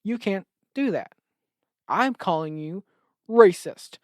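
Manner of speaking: accusing yell. Retold or imitated. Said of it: "stands up and goes".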